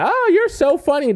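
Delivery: high, gushing fake flirt; squealy mock giggle-flirt; mock flirty gush. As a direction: coo it like an overeager flirt. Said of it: "you don't gotta go overboard like that".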